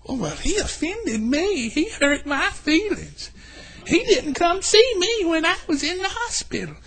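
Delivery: soft, high, slow whining; mock self-pity. Preacher mocking the offended person's complaints, whining softly. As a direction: whine like a wounded soul. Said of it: "making it a me thing".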